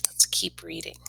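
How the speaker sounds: quiet, breathy aside; soft whisper. Real, not acted. Reader to listening children, whispered. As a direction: hush them back into the story. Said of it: "reader to children".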